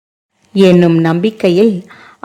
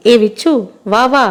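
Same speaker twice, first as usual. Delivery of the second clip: glad call; 4 semitones higher than usual. Acted. Man welcoming his old friend at the door, glad call. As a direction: call him in warmly from the doorway.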